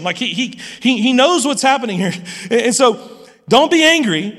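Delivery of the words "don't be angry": a mild plea, a little higher and louder; pleading Abraham. A narrator's reading. Abraham asking the Lord for mercy, mild pleading. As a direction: ask for mercy, understated. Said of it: "Abraham pleaded".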